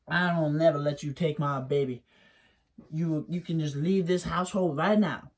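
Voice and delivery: lightly voiced stubborn mother; a hint of a defiant mother refusing; mother turning away a visitor, lightly voiced; Wiley's mammy. Wiley's mammy answers the hairy man.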